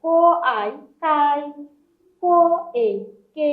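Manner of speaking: "ক, এ, কে" part by part, then blended; blending syllables. Shown as a demonstration. Teacher showing initials joining finals, syllables sounded out separately. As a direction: sound out "ক", then "আই", then join them as "কাই". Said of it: "compound যে finals, এগুলার কম্বিনেশনে".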